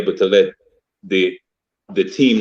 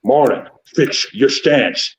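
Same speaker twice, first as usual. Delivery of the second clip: slow imitation of a coach with slushy "sh" S sounds; 3 semitones higher, much slower than usual. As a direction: draw out the order, every S becoming "sh". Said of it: "Coach P talk like this".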